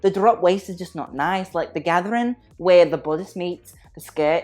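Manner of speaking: light put-on Irish accent. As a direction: play at sounding Irish, lightly. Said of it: "I can't do the Irish accent anymore".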